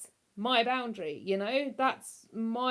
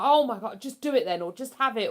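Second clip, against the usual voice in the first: exasperated snap; 5 dB louder than usual. Retold or imitated. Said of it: "I'll snap and be like".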